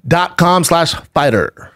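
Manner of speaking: ad read. Real, not acted. Host giving listeners a mattress deal, ad read. Reads a sponsor ad.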